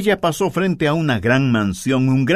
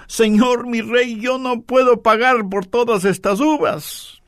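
much higher and strained with alarm; frightened; 9 semitones higher than usual. A narrator's reading. The frightened mother tells the king she cannot pay, high and alarmed. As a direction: gasp it out, overwhelmed and afraid. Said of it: "Ella, asustada".

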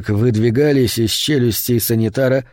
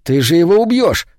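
furious shout; 5 semitones higher than usual. A narrator's reading. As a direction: roar it at the attacker. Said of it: "заорал Вес".

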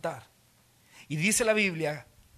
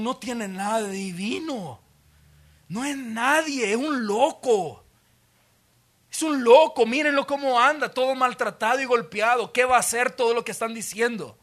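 higher, scornful, loud on loco; mocking scorn; 4 semitones higher, 4 dB louder than usual. Crowd mocking Jesus as a madman, loud scorn. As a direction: sneer at the beaten man. Mockers call Jesus mad.

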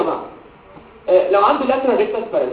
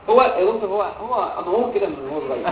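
lightly voiced mother, slowing and softening; mother explaining away; 3 dB quieter than usual. Mother tells the doctor her boy was always so, lightly acted. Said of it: "ساعات الام بتبقى مفكره ان دي طبيعه الولد".

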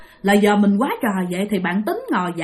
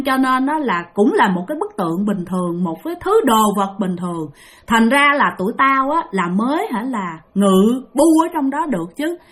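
angry ghost voice; 3 semitones higher than usual. Acted. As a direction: speak as the hungry ghosts. Ghosts answer through the possessed child.

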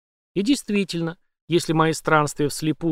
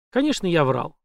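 ordinary delivery

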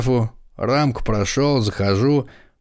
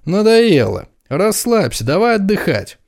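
much higher, loud and carefree; loose, rowdy; 10 semitones higher, 3 dB louder than usual. Acted. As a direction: let loose and party. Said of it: "развязно протянул Томас".

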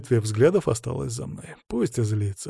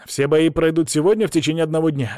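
raised, projected host announcement; lifted public-address delivery; announcing; 4 semitones higher, 4 dB louder than usual. A narrator's reading. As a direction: announce the bouts to all the fighters. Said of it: "объявил Паша".

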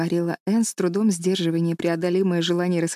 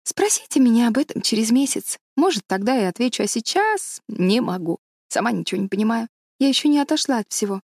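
lightly voiced eager schoolteacher, pitched up; Anne, overwhelmed young teacher; 5 semitones higher than usual. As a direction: pour out the first day's muddled impressions.

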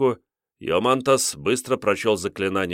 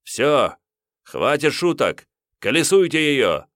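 higher, louder furious command; angry order; 7 semitones higher, 5 dB louder than usual. Acted. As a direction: lose patience and order it. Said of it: "вышел из себя".

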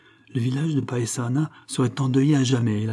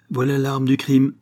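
raised call to the others; 4 semitones higher, 5 dB louder than usual. Acted. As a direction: call it across to the men. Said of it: "cria-t-il".

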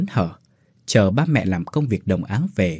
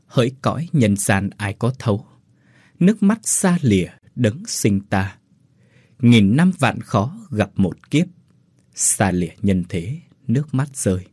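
mournful verse. A narrator's reading. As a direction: recite it like a grieving poem. Lament verse. (ngâm thơ buồn thương, chậm rãi)

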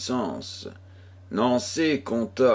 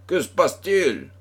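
higher-pitched, lightly acted alarm; alarmed question; 8 semitones higher than usual. A narrator's reading. Chevalier asks the frightened girl what is wrong, alarmed. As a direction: call out the question with some alarm. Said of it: "gronda Pardaillan qui pâlit lui-même".

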